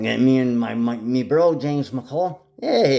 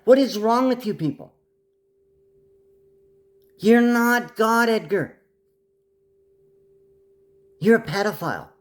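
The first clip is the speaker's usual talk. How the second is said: much higher and louder, furious ranting; angry rant; 10 semitones higher, 3 dB louder than usual. Real, not acted. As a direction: yell it at them, high-pitched and outraged. Ranting about cloning the fish.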